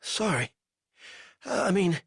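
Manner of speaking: a weak captive fumbling for words; lightly voiced delirious prisoner; feverish prisoner. A narrator's reading. Narrator voices the prisoner Banks.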